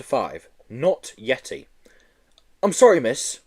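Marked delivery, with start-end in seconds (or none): 2.6-3.4 whimpering. Acted. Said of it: "whimpered Joe".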